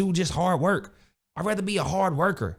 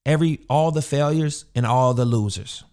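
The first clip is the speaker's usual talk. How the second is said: mock award speech; 4 semitones lower, 5 dB louder than usual. Real, not acted. Loud award announcement.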